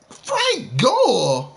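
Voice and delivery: high, wailing "Frank Gore?"; fake-cry the name in outrage; mock crying disbelief.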